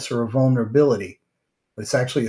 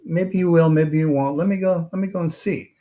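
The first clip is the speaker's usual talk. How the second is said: lightly voiced easygoing meditator, higher and unhurried; calm meditator; 4 semitones higher than usual. Meditator to worried villagers, lightly voiced easygoing calm. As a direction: shrug it off like a calm wanderer. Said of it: "And the meditator was like".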